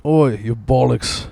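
slow, drawn-out British accent; mock British accent. Shown as a demonstration. Showing off mastered accent to co-host, slow mock British accent. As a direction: stretch it out in a put-on British accent. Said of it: "That's mastered".

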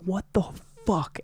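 high, stunned what the fuck; shocked disbelief. Retold or imitated. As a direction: react like you can't believe it. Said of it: "And I'm like".

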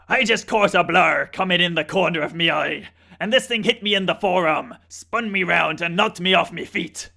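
put-on loud, broad Australian accent. An Australian fisherman recounting the shark hit, in broad Australian accent. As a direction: tell it like a rough Aussie fisherman. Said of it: "that is an incredible Australian accent".

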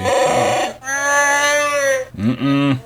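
a touch of softening, giving in; anger melting away. Pretend. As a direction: let the annoyance fade into fondness. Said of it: "I can't stay mad at you".

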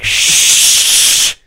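voiceless sharp shush. Retold or imitated. Turning to shush the talking teens, sharp voiceless shush. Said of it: "I turned around and I was like".

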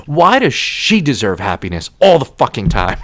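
retold indignant outburst; mock outrage at someone else's good luck; angry. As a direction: act out resentful exasperation. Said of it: "I was so fucking angry".

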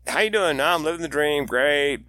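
mock cheerful small talk. Mocking hollow small talk.

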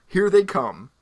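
high, loud ominous call; dramatic warning. Pretend. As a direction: announce the invasion.

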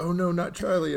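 high, pained "oh no"; a wife's mock dismay over a horse. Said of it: "she's like".

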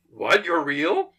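acted surprise. The Doctor meeting Santa yet another time, surprised. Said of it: "he always is surprised when he meets them".

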